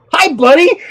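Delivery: loud, high mock greeting; startling call. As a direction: pounce on it with a sudden high call. Calls out to startle a dog.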